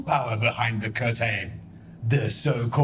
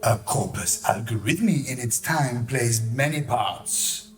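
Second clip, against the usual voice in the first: lightly theatrical verse recital; Shakespearean recital. Acted. Villain parodying Shakespeare to the audience, light theatrical recital. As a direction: declaim it like a Romeo soliloquy.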